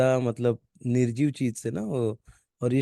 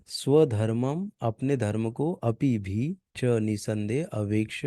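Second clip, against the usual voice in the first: slow reading; slower than usual. Shown as a demonstration. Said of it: "word to word meaning पढ़ते हैं".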